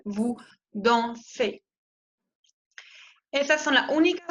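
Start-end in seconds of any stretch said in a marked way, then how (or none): 0.0-1.6 dansez with a Spanish-like E at the end; slowly, vous dansez ending on E; French vous dansez. Shown as a demonstration. Teacher modelling the ez ending slowly. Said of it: "se pronuncia E, como la E española".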